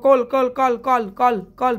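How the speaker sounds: "কল" repeated as a separate, evenly beaten syllable; syllable demo. Shown as a demonstration. Teacher demonstrating a syllable to class eight, clear repeated "কল". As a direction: sound out "কল" over and over, each one apart. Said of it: "ভালো করে উচ্চারণ করবো".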